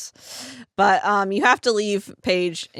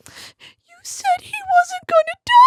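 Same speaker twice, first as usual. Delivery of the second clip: high, squeaky laughing voice; 7 dB louder than usual. Real, not acted. Friend accusing the host, quoted through laughter. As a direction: let laughter break the quote. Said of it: "Lorna looks at me and goes".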